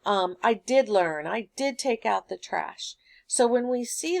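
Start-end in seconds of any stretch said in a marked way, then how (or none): 0.4-1.3 DID stressed in the example; emphatic DID. Shown as a demonstration. Teacher showing past tense emphatic, stress on DID. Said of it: "does, did with our emphatic". 1.3-2.9 DID given extra weight; emphatic DID. Shown as a demonstration. Teacher showing the emphatic form, stress on DID. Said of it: "does, did with our emphatic".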